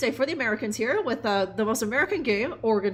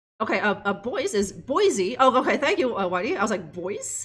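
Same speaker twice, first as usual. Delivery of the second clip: ordinary talk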